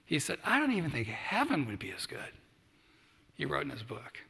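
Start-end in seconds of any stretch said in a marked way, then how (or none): 0.5-2.3 whispered quote. Retold or imitated. Quoting Bill Russell's book.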